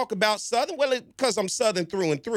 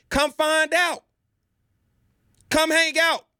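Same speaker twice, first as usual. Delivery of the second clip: eager invitation; 7 semitones higher, slower than usual. Real, not acted. Inviting outsiders to Southern.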